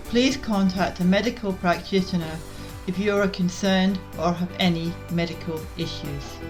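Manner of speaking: measured, clearly articulated scripted read; podcast intro read. Real, not acted. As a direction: read the show's intro in even, deliberate phrases. Recorded podcast intro and disclaimer.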